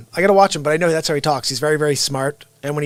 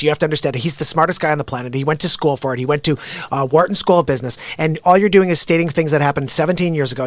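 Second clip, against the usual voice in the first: fast, pushy debate voice, a bit louder; Ben Shapiro impression; 4 dB louder than usual. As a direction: rattle off the argument like a combative pundit, louder. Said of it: "How's that for Shapiro-ish?".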